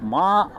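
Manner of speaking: மா slowly, with a long open "aa"; syllable shown. Shown as a demonstration. Teacher having students check the first sound, drawn-out pronunciation. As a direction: stretch மா out on its vowel. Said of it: "அதை pronunciation பண்ணி பாருங்க".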